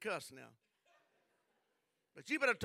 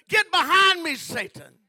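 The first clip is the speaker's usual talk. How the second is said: roared much higher and louder; furious shout; 10 semitones higher, 17 dB louder than usual. Acted. Jesus ordering Satan away, a huge shout. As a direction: drive the devil off with a roar.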